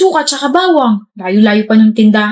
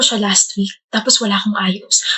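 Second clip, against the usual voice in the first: whisper; 3 semitones lower, 6 dB quieter than usual. Acted. Confiding embarrassing secret to sister.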